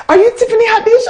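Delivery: high-pitched eager fan; excited fans. Retold or imitated. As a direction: squeal the question like a fan. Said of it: "they're like".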